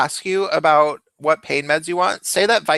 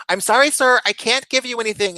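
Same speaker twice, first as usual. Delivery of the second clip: higher, patient nurse voice; 7 semitones higher than usual. Retold or imitated. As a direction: turn the patient down like a tired nurse. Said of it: "she's like".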